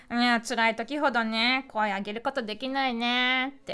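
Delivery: a lightly voiced lazy egg; Gudetama-like droop. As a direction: let the words sag and stretch lazily. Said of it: "みんなでなんかぐでたまになりたくない？".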